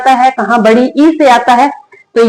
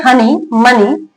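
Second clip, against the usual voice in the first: slow, deliberate word reading; slow spelling read-out; much slower than usual. Shown as a demonstration. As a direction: read each word slowly for the class. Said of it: "तो spelling आप देख सकते हैं". (धीरे-धीरे शब्द पढ़ना)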